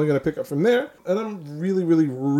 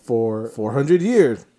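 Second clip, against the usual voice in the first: mock corporate ad voice; 3 dB louder, slower than usual. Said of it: "what he's referencing".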